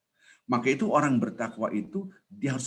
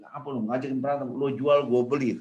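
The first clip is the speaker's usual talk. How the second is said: mild Betawi challenge, slightly raised; Betawi tough talk; 4 semitones higher than usual. Retold or imitated. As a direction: goad a rival in Betawi style. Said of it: "Kalau orang Betawi bilang".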